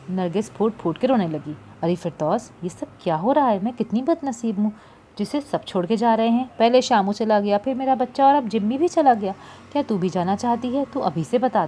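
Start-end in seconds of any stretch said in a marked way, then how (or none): 1.8-11.7 understated tearful lament; a touch of weeping in the voice; lightly acted crying old woman. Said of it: "Nargis ने रोते हुए कहा".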